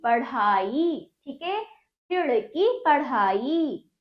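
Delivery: पढ़ाई and खिड़की stretched slowly; slow model words. Shown as a demonstration. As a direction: sound out each word for the class. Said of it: "आ की मात्रा बड़ी ई".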